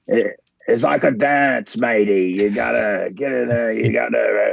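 imitating a New Zealand wrestler; light Kiwi accent, slowed. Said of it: "in his own New Zealand accent".

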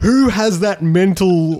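high, slow, loud laughing voice; laughing disbelief. Real, not acted. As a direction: push it out while laughing.

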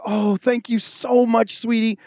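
slow, drawn-out grateful thanks; wife thanking her husband slowly; sweet thanks. Retold or imitated. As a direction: gush your thanks slowly to him. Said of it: "And she's like".

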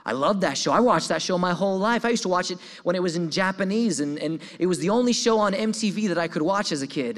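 a retold fan's delighted gush; starstruck excitement. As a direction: gush like a kid meeting a hero. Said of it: "I was floored. My eyes got as round as saucers".

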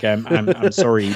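mild, hesitant apology; apologetic. Retold or imitated. Wrestler excusing himself to the Patriot, mildly apologetic. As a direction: stammer a retold sorry, lightly apologetic.

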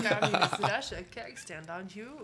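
put-on a clumsy Russian accent joke; terrible Russian accent. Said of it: "That's a terrible Russian accent".

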